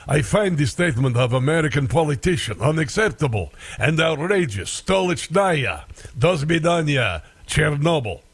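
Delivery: a light mock Russian accent; hint of a Russian accent, half-joking. Host mocking the Russian ambassador's statement in a mild Russian accent. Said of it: "I should do a Russian accent".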